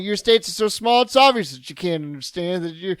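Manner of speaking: lightly voiced scolding Texan; mock Texan lecture. Lecturing the caller on saying Texas, mock indignant. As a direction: correct him like a proud Texan. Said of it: "I was like".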